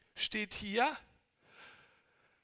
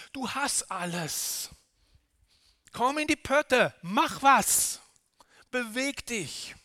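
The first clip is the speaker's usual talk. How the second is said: fiery preaching push; booming motivational speech. Real, not acted. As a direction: rouse them to get moving. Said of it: "Ich eifere jetzt".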